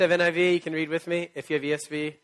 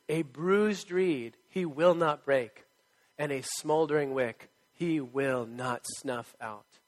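scripture reading; much slower than usual. Acted. Quotes scripture slowly.

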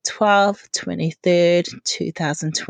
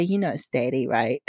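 a hint of a six-year-old daughter, softer and lower; quiet lower daughter voice; 6 semitones lower, 6 dB quieter than usual. Mum imitates her daughter answering a quiz, quietly. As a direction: say it plainly, as a small child would. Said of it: "she'll say".

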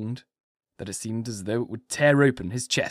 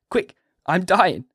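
higher, louder, slow plea; desperate cry; 7 semitones higher, 5 dB louder, slower than usual. A narrator's reading. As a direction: force it out with the last strength. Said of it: "with more energy than he had yet displayed".

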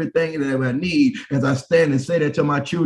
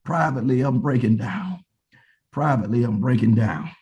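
privately breaking down. Acted. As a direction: let the plea sink into a subdued confession.

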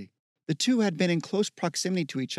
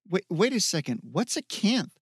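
higher, insistent demand; 4 semitones higher than usual. Acted. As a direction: press her for an answer. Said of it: "Michael demanded".

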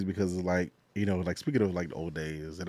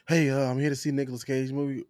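a touch higher, lightly voiced moviegoer; acted ticket buyer; 6 semitones higher, 4 dB louder than usual. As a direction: lightly play an eager ticket customer. Acting a moviegoer at ticket window.

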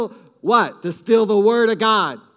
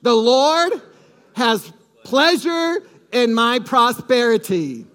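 louder with stress on Lord and slow on pleasure; said again, bolder; 2 semitones higher, 3 dB louder, slower than usual. Shown as a demonstration. Pastor has the church repeat it, louder and slower. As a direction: declare it with more confidence to build it up. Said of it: "Say it again".

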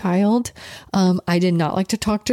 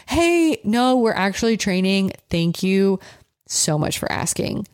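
polite refusal. Shown as a demonstration. Owner to a stranger asking to pet, courteous. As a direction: decline kindly and thank them. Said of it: "don't have to be a jerk".

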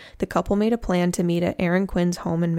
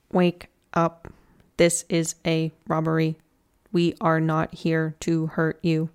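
slow, even robot voice with every word set apart; lightly voiced robot intruder, slowed down; robotic disguised voice. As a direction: mimic an intruder hiding his voice behind a machine tone. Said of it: "making themselves sound like a robot".

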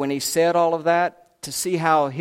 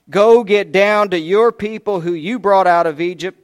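mild angry God; 3 semitones higher, 8 dB louder than usual. Acted. God's angry speech to Moses.

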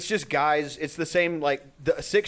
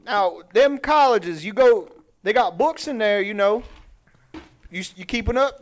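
higher mock Cajun storytelling; Cajun guy voice; 5 semitones higher than usual. Host quizzing the local crowd about colleges, mock Cajun guy voice. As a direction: lecture like a comic Cajun guy. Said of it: "like, Cajun guy voice".

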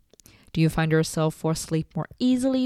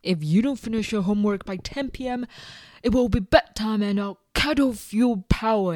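stern parent; 3 semitones higher than usual. Retold or imitated. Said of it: "parents who tell their kids".

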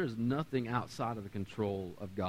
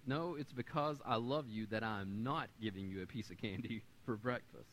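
hushed, gentle and much softer; soft reply to son; 4 semitones lower, 11 dB quieter than usual. Retold or imitated. Father quietly answering his son about candy, hushed and gentle. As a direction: say it softly to the boy, like a loving father. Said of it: "and this is what I said to him".

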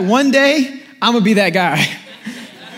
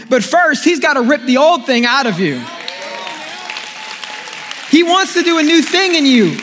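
rising preaching. Acted. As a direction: preach it up to the crowd. Preaching builds.

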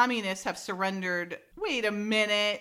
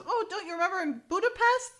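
raised, chirpy mock gossip; high gossipy reminder; 10 semitones higher, faster than usual. Tennis star teasing Francine about Budapest, high and chirpy.

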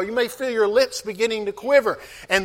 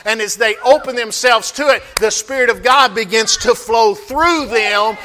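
preaching. Acted. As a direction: press the congregation with rising force. Preaching at full force.

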